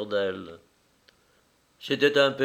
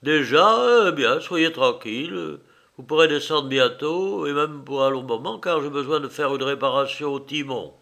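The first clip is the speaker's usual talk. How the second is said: coachman voice; 3 semitones higher, 4 dB louder than usual. Acted. Coachman reassures passengers.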